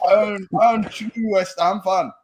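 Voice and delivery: lightly put-on Jamaican accent, broken grammar; a hint of Jamaican accent; mock Jamaican accent. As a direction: slip into a jokey Jamaican accent. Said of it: "You've gone Jamaican now".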